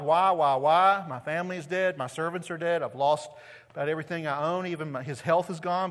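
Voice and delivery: a touch of anguished lament; crying out. Retold or imitated. Job crying out to God after losing everything, mild lament. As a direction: plead with God, mildly. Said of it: "he's crying out to God".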